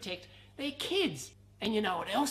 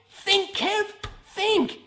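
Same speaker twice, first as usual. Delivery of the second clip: silly mismatched redub; 7 semitones higher, 9 dB louder, slower than usual. Pretend. Back to the Future quote.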